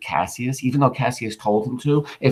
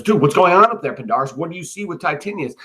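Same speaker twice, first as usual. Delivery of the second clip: upset; 5 semitones higher than usual. Acted. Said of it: "he goes upset".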